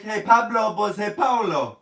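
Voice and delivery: mock call. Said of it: "it's like".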